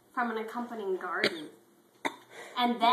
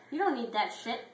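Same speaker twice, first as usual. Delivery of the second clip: firm pep talk; 4 semitones higher, 4 dB louder than usual. Acted. Clifford repeats the advice.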